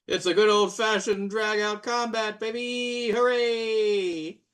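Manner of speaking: high-pitched, gleeful hype; excited announcement. Pretend. Game master announcing combat to players, excited. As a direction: whoop up the coming fight.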